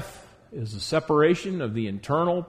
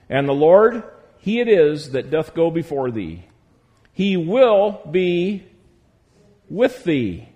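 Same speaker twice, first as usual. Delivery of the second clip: slow and louder, every phrase weighted; emphatic scripture reading; 3 semitones higher, 6 dB louder, slower than usual. Acted. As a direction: lean hard on each promise from the pulpit. Preacher reads key verse with weight.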